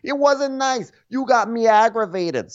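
high, indignant; mock Gia. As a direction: defend herself up high. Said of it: "she's like".

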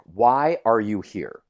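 slow, lightly stern questioning. Retold or imitated. Coworker confronting him at the bar, mildly stern and slow. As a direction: imitate a serious talking-to, drawn out. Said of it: "Like, in a stern voice".

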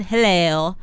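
"hello" with an Australian extra vowel glide at the end; Australian "hello", final vowel bent into a glide; Australian extra syllable. Shown as a demonstration. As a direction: stretch the last vowel of "hello" into two sounds, Australian style. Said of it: "there's, like, an extra syllable".

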